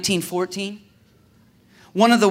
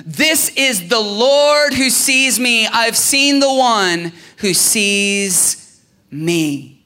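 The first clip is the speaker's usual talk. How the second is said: higher, amazed and grateful; Hagar amazed; 4 semitones higher, 4 dB louder, slower than usual. Retold or imitated. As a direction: voice Hagar's awestruck relief. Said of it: "And she's like".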